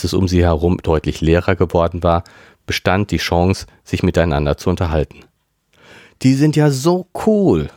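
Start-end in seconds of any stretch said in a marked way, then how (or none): 6.2-7.7 excited shout. A narrator's reading. Melanie enthuses to friends after the concert, excited. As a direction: gush about the band. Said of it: "schrie Melanie begeistert".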